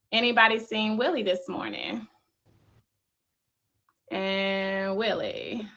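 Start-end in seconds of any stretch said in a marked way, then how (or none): 4.1-5.7 slow hushed whisper. Acted. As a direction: breathe the name softly. Calling for an absent panelist.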